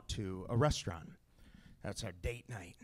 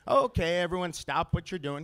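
higher, louder call for attention; commanding call; 5 semitones higher, 5 dB louder than usual. Acted. Dad calling the whole table to order, loud. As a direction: cut through the table chatter. Dad silencing kids at restaurant.

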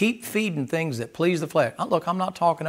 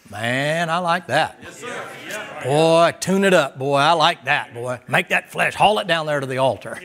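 cheering soul voice. Retold or imitated.

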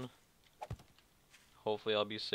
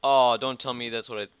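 alarmed; 2 semitones higher, 11 dB louder than usual. Real, not acted. Spots something alarming.

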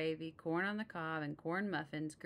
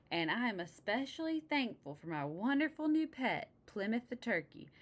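eager thanks; 6 semitones higher, 3 dB louder than usual. Acted.

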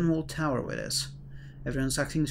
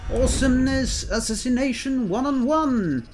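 hyped up; 9 semitones higher, 4 dB louder than usual. Real, not acted. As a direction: sell each power like an announcer. Hyping up a power move.

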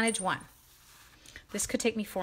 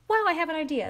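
mock excitement; 7 semitones higher, 5 dB louder, faster than usual. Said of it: "Like a".

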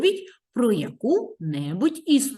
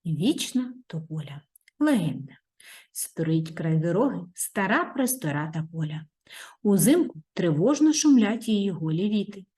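story narration; 3 semitones higher than usual. A narrator's reading. Reads the legend aloud.

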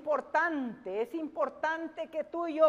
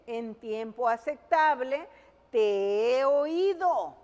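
preacher pressing a verse on the congregation; firm, projected sermon delivery; emphatic preaching; 3 dB louder than usual. Real, not acted.

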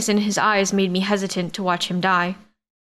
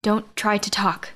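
gentle urging; slower than usual. Acted. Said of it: "Nina urged".

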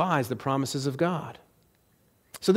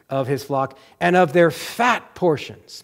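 slow, phrase by phrase, building to FAT; slower reading; slower than usual. Shown as a demonstration. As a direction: read deliberately, landing hard on "fat portions". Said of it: "Let me go slower".

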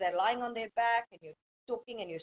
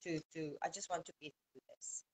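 tired new mom; 4 dB louder than usual. Retold or imitated. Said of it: "some parents feel like".

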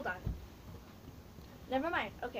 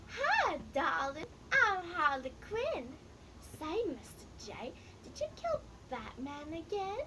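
lightly voiced flirty Harley Quinn, pitched up in spots; a hint of Harley's sugary coo, swooping up on hi; 4 semitones higher than usual. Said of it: "my best Harley Quinn impression".

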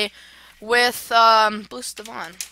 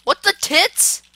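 baffled exclamation; 6 semitones higher, slower than usual. Real, not acted. Startled by game glitch.

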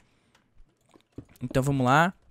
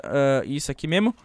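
ordinary talk

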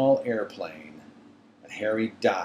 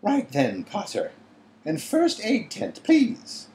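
stern teacher voice; 11 semitones higher than usual. A narrator's reading. McGonagall voiced.

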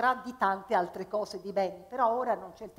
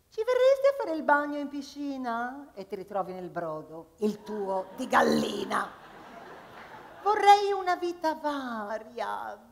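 higher, lively hen voice full of ambition; hen character; 3 semitones higher, 4 dB louder than usual. Acted. Hen telling the audience she wants to be an actress. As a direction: play a hen dreaming of stardom.

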